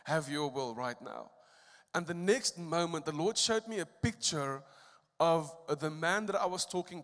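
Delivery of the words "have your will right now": hushed, much softer surrendered prayer; silent inner prayer. Retold or imitated. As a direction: whisper the surrender to God. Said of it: "in my mind".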